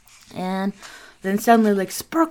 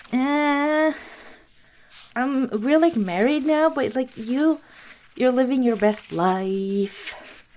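sister's voice; 5 semitones higher than usual. Retold or imitated. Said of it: "her sister was like".

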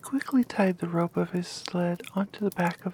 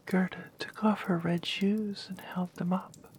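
whispered story. Acted.

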